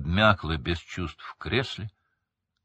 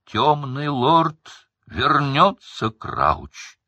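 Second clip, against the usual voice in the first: loud, higher, slow threat; defiant exclamation; 7 semitones higher, 6 dB louder, much slower than usual. A narrator's reading. Prisoner woman defying Crouch, loud and slow. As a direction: spit defiance at him. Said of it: "воскликнула".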